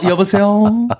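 polite standard hello; standard phone voice. Retold or imitated. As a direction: switch to proper Seoul speech. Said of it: "사투리를 그냥 고치시잖아".

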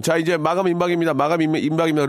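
high-pitched urgent sales pitch; home-shopping host. Retold or imitated. Shopping host warning viewers time is running out, urgent. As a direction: imitate a TV seller pressing a deadline. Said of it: "홈쇼핑 보면은".

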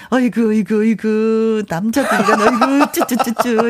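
clucking tongue at men; mock-disapproving tut-tut; tutting scold. Real, not acted. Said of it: "혀를 차셨네".

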